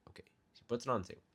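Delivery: quick whispered repeat. Real, not acted. Server whispering a quick aside to the viewer. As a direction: whisper it fast under your breath.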